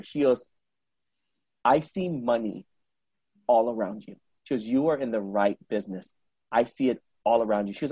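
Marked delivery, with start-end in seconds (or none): 1.6-4.1 solemn prophecy. Retold or imitated. Card reader foretelling client's riches, solemn and soft. 4.6-7.7 low, soft retold fortune-telling; solemn prophecy. Card reader reassuring client about business, solemn and soft.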